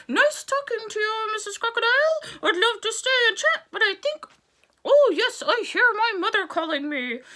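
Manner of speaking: high, loud mock British frog accent; a bit British. Frog excusing himself to the crocodile in mock British accent. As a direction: back away politely in a British accent. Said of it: "He sounded a little British there".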